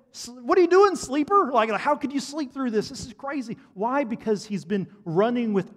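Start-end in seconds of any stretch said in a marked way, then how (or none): 0.1-3.6 much higher, louder incredulous yell; frantic crew yelling at a sleeper; alarmed sailors shouting. Retold or imitated. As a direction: sailors waking a sleeping man in a storm. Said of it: "they address him and say".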